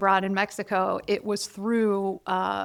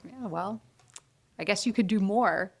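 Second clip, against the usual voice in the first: unimpressed teacher. Retold or imitated. Third-grade teacher answering an eager pupil, mildly unimpressed. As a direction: lightly imitate a teacher who is not impressed. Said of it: "who was unimpressed by me".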